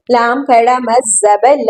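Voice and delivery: final "ल" drawn out on a long aa; long madd. Shown as a demonstration. Teacher showing a long madd, final "ल" greatly prolonged. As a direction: stretch "ल" for several beats. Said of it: "बहुत खींच कर पढ़ना है".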